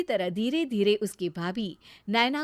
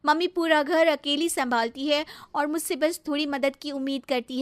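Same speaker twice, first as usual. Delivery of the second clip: higher-pitched, mildly plaintive confession; remorseful sister; 5 semitones higher, 3 dB louder than usual. Acted. Sister admits her fault to brother, remorseful. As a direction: own up with gentle regret.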